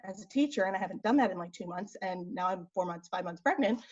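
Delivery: winded, catching breath while talking; slightly breathless, running out of air. Real, not acted. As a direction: talk softly between gasps. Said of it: "why I'm out of breath".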